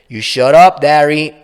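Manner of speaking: loud, sharp shut-up; angry retort. Acted. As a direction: slap him down with it. Roberta snaps back at Darren.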